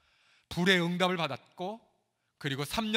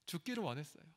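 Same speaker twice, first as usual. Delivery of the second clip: 죽기를 said again much softer, falling; softer repeat; 10 dB quieter, faster than usual. Shown as a demonstration. Pastor echoing to congregation, 죽기를 said quietly. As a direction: drop to a hush on 죽기를 원했어요. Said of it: "repeated softer".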